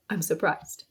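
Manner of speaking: gasp, then slow and soft; big gasp into a slow, stunned line; demonstrating surprise. Shown as a demonstration. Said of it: "You kinda take a big gasp".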